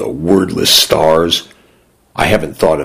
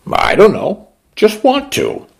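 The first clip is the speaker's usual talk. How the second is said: put-on little girl voice. A narrator's reading. Young girl shrugs.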